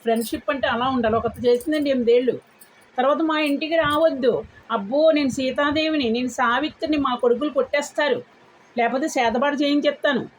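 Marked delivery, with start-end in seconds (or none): 3.2-10.3 mocking a boastful woman. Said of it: "అని ఒక ఆవిడ అన్నదండి".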